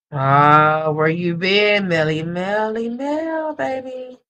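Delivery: loud call rising high on Mel; excited greeting. Real, not acted. Greeting returning viewer fondly.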